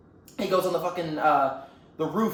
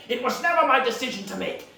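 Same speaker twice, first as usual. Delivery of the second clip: protesting master; 5 semitones higher than usual. Acted. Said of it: "Shifu goes".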